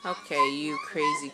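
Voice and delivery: very high playful squeak; squeaky high voice. Real, not acted.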